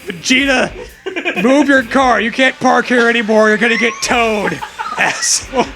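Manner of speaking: mock scolding. Office worker chewing out Vegeta, mock angry. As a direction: yell at him to move his car.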